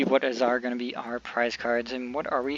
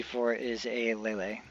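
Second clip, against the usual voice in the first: slurping hot coffee; 6 dB quieter than usual. Real, not acted. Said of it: "Sorry for the slurping noises".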